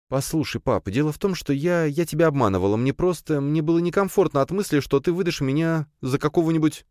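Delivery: put-on high, halting girlish voice; young daughter, hesitant. A narrator's reading. Daughter confessing to her father, nervous high voice.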